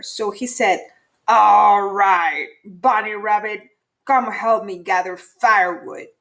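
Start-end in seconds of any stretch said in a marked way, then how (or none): 1.3-6.1 louder, grudging gruff order; grumpy varmint. Acted. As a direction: give in grudgingly, then boss him.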